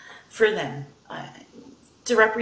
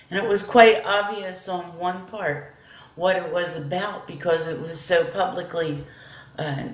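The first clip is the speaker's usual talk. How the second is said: a light Australian twang on "lucky mite"; lightly mimicked Australian voice; Australian accent. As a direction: speak as the late hunter, mildly Australian. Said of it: "if my Australian accent is off".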